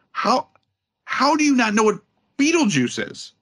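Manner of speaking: high, incredulous outburst; disbelieving squeal. Real, not acted. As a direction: ask how anyone could not know. Incredulous rant.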